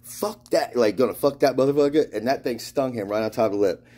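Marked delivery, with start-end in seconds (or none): 0.0-2.1 high-pitched retold cussing; cocky mock outburst, pitched up; mock defiant. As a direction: imitate a friend's defiant refusal. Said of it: "he said it like".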